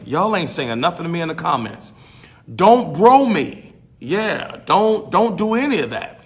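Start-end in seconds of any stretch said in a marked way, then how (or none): 2.6-6.2 stern teacher again. Retold or imitated. Teacher repeating the warning to students, slow and stern. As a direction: drag each word out as a firm classroom warning.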